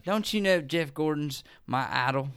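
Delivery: put-on lightly drunken Southern accent. Drunk fan defending racing idol, Southern accent. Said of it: "I got stuck in the Southern accent".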